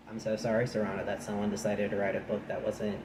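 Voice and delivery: deadpan sarcastic apology; heavily sarcastic. Real, not acted. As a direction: offer a mock apology in an understated voice. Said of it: "I'm being heavily sarcastic".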